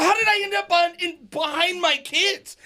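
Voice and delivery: high, wailing mock cry; high mock wail of disbelief, slowing at the end; losing it. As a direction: whine it like you've lost it, half laughing. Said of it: "losing it".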